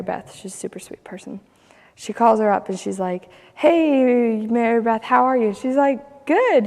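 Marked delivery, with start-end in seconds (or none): 3.5-5.5 put-on higher, louder bright call to an old friend; chirpy hello down the phone; cheery phone hello. Lady calls friend after eight years, cheery. 6.3-6.7 much higher, louder puzzled "Good."; confused reply. Retold or imitated. Surprised friend answering unexpected call, confused. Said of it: "hear the confusion in her voice".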